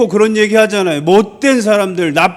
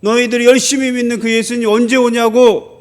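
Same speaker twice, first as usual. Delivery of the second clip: insistent, taunting questions; retold jeering, slightly raised; imitated mockery; 3 semitones higher than usual. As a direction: needle the believers as a scoffer would. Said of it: "라고 조롱하는 거예요".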